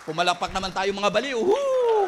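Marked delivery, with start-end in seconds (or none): 1.4-2.1 high loud cheering whoop; rally the crowd with a whoop; big joyful woo. Acted. Cheering congregation on as baliw.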